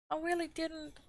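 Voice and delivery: frightened. A narrator's reading. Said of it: "much frightened".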